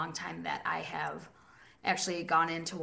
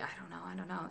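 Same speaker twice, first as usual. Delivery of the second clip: quoting coworkers; 12 dB quieter, much faster than usual. Retold or imitated. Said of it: "They're like".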